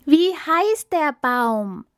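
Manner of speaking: very high, slow, loud shout; hungry animals screaming at the elephant; desperate scream. Acted. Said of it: "schrien die Tiere wieder".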